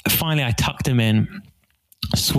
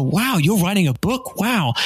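impressed wow; 6 semitones higher than usual. Retold or imitated. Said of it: "And they go".

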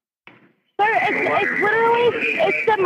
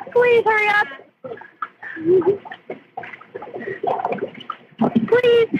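higher, frantic begging; desperate pleading; 4 semitones higher than usual. Real, not acted. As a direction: beg in panic. Begging while water rises.

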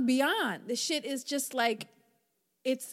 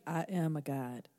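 low, soft affirmation; affirmation to repeat; 9 semitones lower, 6 dB quieter than usual. Shown as a demonstration. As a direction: say it for others to repeat. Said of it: "Repeat after me".

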